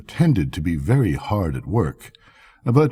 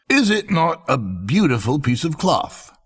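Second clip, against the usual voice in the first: coaxing swindler; 7 semitones higher than usual. Acted. Swindlers coax the courier.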